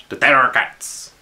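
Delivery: put-on cheesy French accent. Commissar repeating himself slowly to puzzled players, cheesy French accent. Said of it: "I put on a very cheesy French accent".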